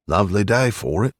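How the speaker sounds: put-on old East End Cockney voice; gruff old Londoner, Cockney; Cockney accent. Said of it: "with an East End Cockney accent".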